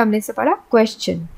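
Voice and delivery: क्वेश्चन said with a ch sound. Shown as a demonstration. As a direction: say क्वेश्चन with ch after the s. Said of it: "च का उच्चारण दिया". (क्वेश्चन में च की ध्वनि)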